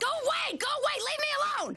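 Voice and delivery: very high, piercing, shrill, crazed, deranged shrieking scream. Told she left her purse at dinner, a woman answers with a piercing, deranged shriek. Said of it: "shriek at him in a piercing, deranged voice".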